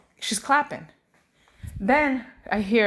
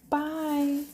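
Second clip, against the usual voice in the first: higher, drawn-out little bye; toddler's bye; 4 semitones higher, 4 dB quieter than usual. Retold or imitated. Mom imitating her daughter after a sigh, gentle toddler voice. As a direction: imitate a small child's long, easy bye. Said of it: "And she's like".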